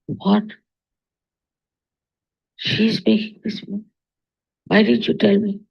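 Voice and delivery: mild tearful shock, voice lifted; retold tearful surprise. Retelling the actress's shock at seeing her old friend, softly tearful. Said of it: "She was crying, crying".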